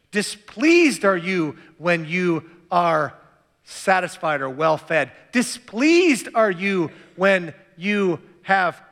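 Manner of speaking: Displeased drawn out slowly and pressed hard; slow stressed displeased. Shown as a demonstration. Preacher reading the woes with Displeased dragged and pressed. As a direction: lean slow and heavy on Displeased. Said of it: "pronounce the opposites".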